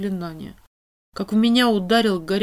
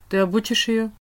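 businesslike; 3 semitones higher, 4 dB louder than usual. A narrator's reading. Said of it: "совсем другим деловым тоном".

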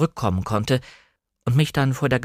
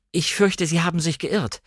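nervous reply; 6 semitones higher than usual. Acted. Narrator answers caller nervously.

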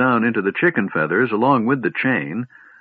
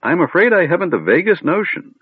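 put-on high, fussy old wizard; lightly voiced doddering old man; 8 semitones higher than usual.

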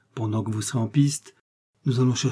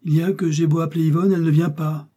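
higher, louder and fast in fury; furious reply; 6 semitones higher, 5 dB louder, faster than usual. A narrator's reading. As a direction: snap back furiously at the dresser. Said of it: "répondit furieusement".

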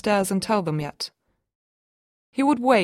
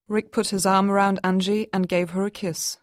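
ordinary delivery, nothing marked

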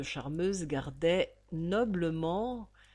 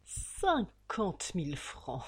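slow bitter outrage; 3 dB quieter, much slower than usual. Acted. Bonner's inner outrage.

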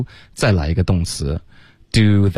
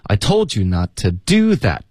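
"do" stressed and lengthened; teacher's model with weight on "do"; key word DO. Shown as a demonstration. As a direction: lean on "do", weak "to" before it. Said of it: "再来一个关键词了".

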